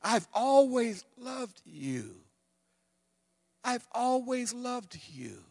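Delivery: high, slow, aching plea; pleading. Acted. The Lord pleading with his people like a jilted lover, high and slow. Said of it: "listen to his plea".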